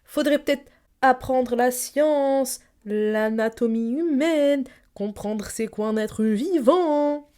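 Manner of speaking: slow, preachy know-it-all; mock lecturing voice. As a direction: lecture them slowly, like a smug teacher. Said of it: "Pourquoi je parle comme ça?".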